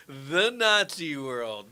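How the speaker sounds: slow, loud laughing repeat of the phrase; drawn-out amused echo. Real, not acted. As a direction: savour the words through a laugh. Amused echo of co-host's line.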